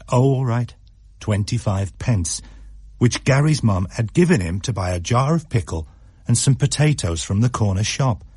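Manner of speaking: plain reading voice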